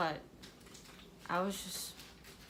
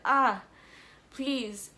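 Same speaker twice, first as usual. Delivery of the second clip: retold screaming; 4 semitones higher, 5 dB louder, slower than usual. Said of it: "And I was screaming".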